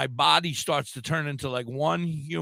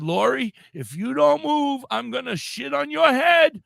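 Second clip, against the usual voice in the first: mock yell at Lori; 8 semitones higher, 4 dB louder than usual. Friend yelling at Lori across the mattress, high mock yell. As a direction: yell a desperate threat up high. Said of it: "she yelled".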